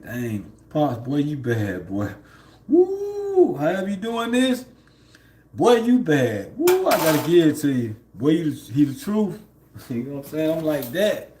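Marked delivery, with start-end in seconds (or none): 0.0-9.4 excited praise. Retold or imitated. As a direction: cheer him on like he just pulled off a miracle. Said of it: "I just be like".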